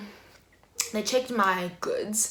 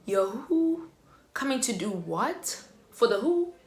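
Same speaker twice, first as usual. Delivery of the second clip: confused retort; 3 semitones higher than usual. Retold or imitated. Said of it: "I'm like".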